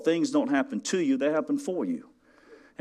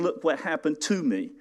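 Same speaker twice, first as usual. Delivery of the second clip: mock moaning complaint; complaining; 4 semitones higher than usual. Preacher mocks a complainer, mild moaning tone. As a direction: whine it like a self-pitying victim. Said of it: "complaining and moaning and groaning".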